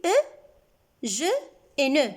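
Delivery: "E, je et ne" with closed eu, one at a time; closed eu sound. Shown as a demonstration. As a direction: isolate the closed vowel in "E, je et ne". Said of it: "Alors, je relis".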